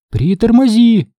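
wife telling her speeding husband to slow down, alarmed; alarmed cutting in. A narrator's reading. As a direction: cut in to stop him. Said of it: "вмешалась миссис Бэнкс".

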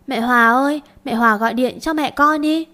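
a lightly voiced small child, pleading and coaxing; whiny little girl. Little Su begging to phone her mother, lightly voiced whiny child. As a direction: wheedle like a spoiled little girl asking a favour. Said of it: "tiếng kêu nũng nịu của bé Su".

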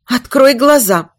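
tight, controlled demand; through clenched teeth. Acted. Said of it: "процедила мать".

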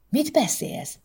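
high, startled question; frightened. Acted. Wife startled by husband's question, high and alarmed. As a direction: gasp it out in alarm. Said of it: "nézett rá ijedten Erika".

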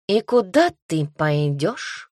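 slow, purring cat tease. Acted. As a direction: ask it lazily like a purring cat. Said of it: "мурлыкнул кот". (кот лениво мурлычет)

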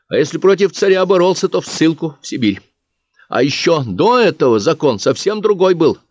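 a lightly voiced young teacher. Teacher Katya explains old laws.

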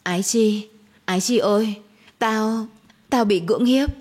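mild sobbing confession. Acted. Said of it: "Lệ Thủy chỉ biết nức nở".

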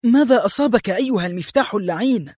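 high, quick exasperated outburst; angry cry. A narrator's reading. Woman cursing her stubborn key at the door, angry. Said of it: "وهي تهتف في غضب".

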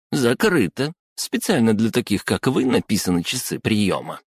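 high scolding woman voice. Acted. The clerk scolds Sanya.

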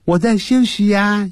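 high, playful reply as the music itself; a lightly voiced lazy spirit, high pitched; cute high-pitched voice of the music; music answering. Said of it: "音乐这样回答".

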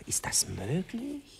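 slow, breathy whispered question; hushed amazement, drawn out slowly; whispered surprise. Acted. Lovers' intimate bedroom scene.

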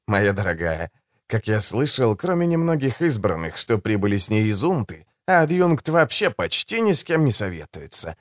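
calm, silky and a little mocking; suave assassin voice. Голос Жемчуга. (учтивый, вкрадчивый голос убийцы)

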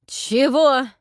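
loud outraged cry; indignant shout. A narrator's reading. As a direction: bark it out in shock. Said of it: "возмущённый крик". (возмущённый крик)

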